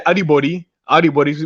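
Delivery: Audi body with Audi rising; correcting the teacher with Audi body; Krio greeting. Shown as a demonstration. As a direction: repeat Audi body the native way. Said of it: "we say".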